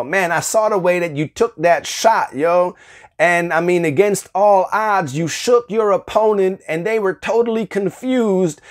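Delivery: enthusiastic buddy praising a shot, lightly voiced; lightly excited hype. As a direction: hype up a friend's basketball shot. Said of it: "somebody comes to you and says".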